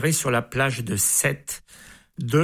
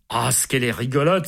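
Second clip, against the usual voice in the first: leering exclamation; faster than usual. Acted. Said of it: "s'écrie ce vieux dégoûtant".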